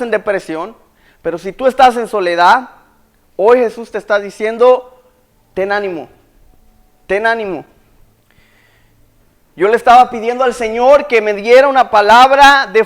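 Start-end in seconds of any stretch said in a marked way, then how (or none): 5.5-7.6 softer, quiet comfort; gentle reassurance. Acted. Preacher voicing Jesus comforting the lonely, softly. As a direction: hush it like a tender promise.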